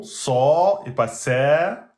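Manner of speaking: "sa" slow in two beats; emphatic in two beats. Shown as a demonstration. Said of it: "Vous prononcez en deux temps".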